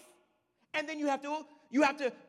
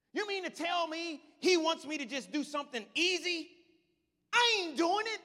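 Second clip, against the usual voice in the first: indignant Naaman; 4 semitones higher, 3 dB louder than usual. Retold or imitated. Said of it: "And Naaman is like".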